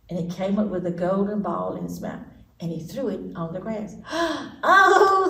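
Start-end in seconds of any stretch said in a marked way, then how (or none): 4.1-5.3 high loud oh; high joyful gasp and oh; delighted cry. Acted. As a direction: gasp with joy. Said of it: "the princess cried".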